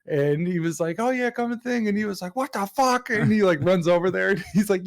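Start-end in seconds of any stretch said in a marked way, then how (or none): 1.0-1.9 high-pitched naive cartoon voice, lightly imitated; Butters. Passing out flyers in town, Butters impression. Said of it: "Butters is sitting there passing around flyers". 2.3-3.1 high-pitched mock-accented cartoon outrage; hammed-up indignant cartoon owner; imitated yelling. Restaurant owner spotting a rival's flyers, imitated yelling. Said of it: "yelling at him".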